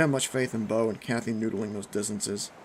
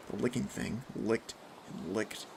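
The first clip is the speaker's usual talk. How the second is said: hushed dread; 3 semitones lower, 9 dB quieter than usual. A narrator's reading. Dread building in narration.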